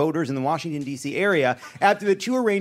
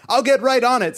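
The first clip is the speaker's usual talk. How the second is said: mock vice president; 7 semitones higher, 4 dB louder than usual. Quoting the vice president's reply.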